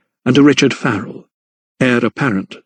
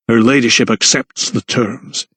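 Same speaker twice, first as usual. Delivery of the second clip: through clenched teeth. Acted. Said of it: "he said through clenched teeth".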